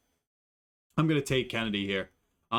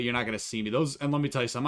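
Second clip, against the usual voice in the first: ordinary delivery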